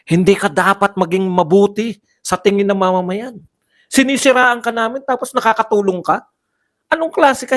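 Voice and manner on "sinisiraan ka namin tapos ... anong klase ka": mock outraged congressman. Parodying congressmen's script.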